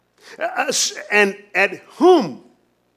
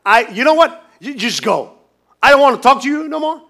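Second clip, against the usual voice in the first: mock exasperated brush-off, louder, the end rushed; fed-up dismissal; 7 dB louder than usual. Pastor imagining God rejecting Cain, mock fed-up. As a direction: wave him off like you're done with him. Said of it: "He just did not say".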